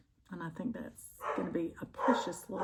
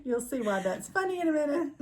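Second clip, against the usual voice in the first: laughing; 7 semitones higher than usual. Real, not acted. Laughing at shared joke.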